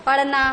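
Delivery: पढ़ना with flapped ढ़; nukta flap sound. Shown as a demonstration. Teacher showing the changed sound, पढ़ना with flapped ढ़. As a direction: flick the ढ़ in पढ़ना. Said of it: "मतलब उच्चारण दूसरा हो गया है".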